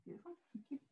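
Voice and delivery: muffled, distant behind a mask; through a face mask. Real, not acted. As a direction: speak from downstairs behind a mask. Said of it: "I hope you can hear me through the mask".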